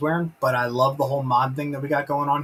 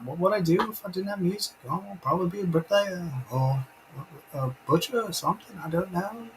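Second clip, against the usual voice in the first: higher, lilting put-on Liverpool voice; impression of a band member; 4 semitones higher than usual. Band members over a cuppa give up on music, band-member impression. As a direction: do a chatty Scouse musician.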